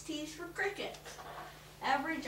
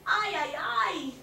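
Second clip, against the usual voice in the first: groan; 3 semitones higher, 7 dB louder than usual. A narrator's reading. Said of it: "the lizard groaned".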